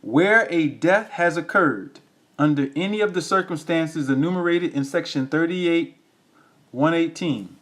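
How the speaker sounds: measured reading with spaces between phrases; slow reading. Real, not acted. Reading the ordinance to listeners so they catch it, slow reading. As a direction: read the clause out deliberately, phrase by phrase. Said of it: "I'm gonna read it slow".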